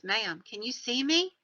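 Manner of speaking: lightly imitated Southern soldier; Southern accent. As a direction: ask it with a touch of Southern. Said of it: "with his Southern accent in place".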